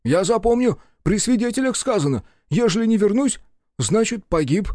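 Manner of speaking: high, loud, sullen refusal; sulky secretary. A narrator's reading. Secretary refuses his master, high and sulky. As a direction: dig in, refusing.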